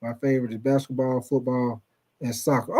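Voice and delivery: a lightly done, soft-spoken caller bragging; imitating Snowy. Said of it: "You say".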